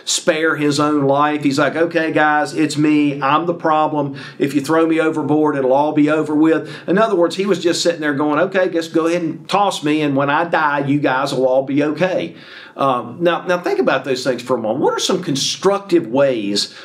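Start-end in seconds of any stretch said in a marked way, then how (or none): 1.8-6.7 even-toned, matter-of-fact shrug; mildly resigned, unbothered delivery; nonchalant. Retold or imitated. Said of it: "it seemed like it was nonchalant". 8.4-12.3 casual, unbothered go-ahead; mildly resigned, even-toned shrug; nonchalant. Retold or imitated. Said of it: "it seemed like it was nonchalant".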